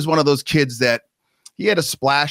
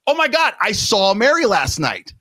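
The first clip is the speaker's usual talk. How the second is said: higher, mock-eerie announcement; spooky reveal; 8 semitones higher than usual. Retelling a ghost story to the family, mock-spooky reveal. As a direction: deliver it like a chilling twist. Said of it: "And I go".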